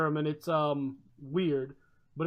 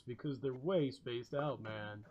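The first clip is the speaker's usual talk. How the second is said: slow, lazy stoner drawl fading low; spaced-out Californian; 5 semitones lower, 11 dB quieter, slower than usual. Retold or imitated. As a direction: lightly play a spaced-out surfer dude. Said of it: "they'll all talk like this".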